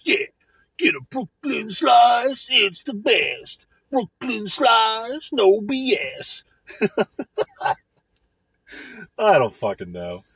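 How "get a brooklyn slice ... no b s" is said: mock pizza ad.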